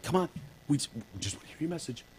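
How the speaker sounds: fast, high, soft sweet-talk; mock coaxing cop. Police coaxing the bomber like a pet, soft and sing-song. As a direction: lure the bomber like a dog.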